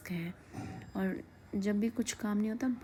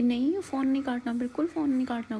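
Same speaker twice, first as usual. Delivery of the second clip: put-on a touch of a cross toddler, pitched up; mock angry toddler; 4 semitones higher, 4 dB louder than usual. Aunt mimics niece angrily refusing the hang-up, mild mock anger. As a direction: imitate the niece getting upset, mildly. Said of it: "तो गुस्सा हो रही है कि".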